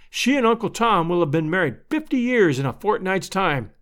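lightly voiced Missus Stetson, earnest and troubled; distressed neighbour woman.

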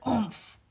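short "oomph" of a man butted; mock winded grunt. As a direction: grunt it as if hit in the stomach. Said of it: "Grandpa Miller yelled the word".

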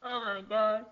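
pained yelp after wine up nose. Real, not acted. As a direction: sputter through a stinging nose. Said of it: "I just had wine go up my nose".

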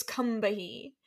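slow, careful "Combahee"; Southern pronunciation. Shown as a demonstration. Host demonstrating the local Combahee, slow and careful. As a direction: draw out "Combahee" the South Carolina way. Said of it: "because it's based in South Carolina".

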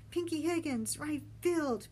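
high, loud call; shouting. A narrator's reading. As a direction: shout the names over the waves. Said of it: "Benny shouted closer".

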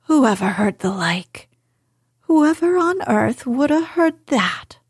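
astonished housekeeper in broad Yorkshire, rising high. A narrator's reading. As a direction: gasp it out in amazed Yorkshire. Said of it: "speaking rather broad Yorkshire herself".

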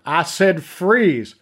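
slow, deliberate warning; repeated order. Acted. Detective repeating his order to Neve, slow and menacing. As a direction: spell it out, each word weighed.

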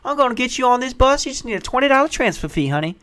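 put-on high, sing-song soothing old lady; sweet old lady. Counter lady comforting a panicked traveller. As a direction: reassure him, honey, it happens. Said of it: "The sweet old black lady's".

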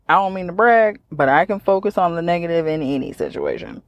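mock bragging, dry sarcasm; deadpan fake pride; sarcastic. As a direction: pretend to boast about being negative. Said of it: "that was sarcasm".

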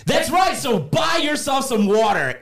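announcer shout. Acted. Closing the mock commercial.

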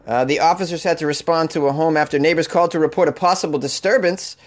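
put-on a light Boston accent on the news read; hint of Boston newscaster. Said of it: "I sounded so Boston there".

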